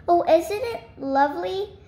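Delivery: a touch of delighted exclaiming; delighted cry. A narrator's reading. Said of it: "cried Miss Greg".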